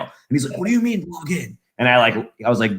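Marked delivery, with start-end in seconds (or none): 0.6-1.6 higher, baffled irritated question; mock a dad annoyed by tech talk; pissed-off dad. Dad questioning his child about logging in, pissed off. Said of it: "He was, like, pissed".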